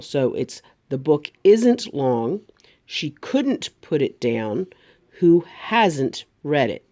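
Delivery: slow, every T in isn't, couldn't, hasn't hit; isn't, couldn't, hasn't with crisp T's; careful T's. Shown as a demonstration. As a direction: spell out each T slowly. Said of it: "Make sure you're hitting those T's".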